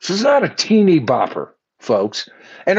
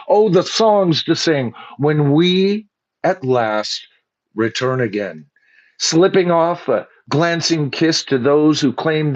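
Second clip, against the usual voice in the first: poem recital. Acted. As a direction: read the lyrics like solemn verse.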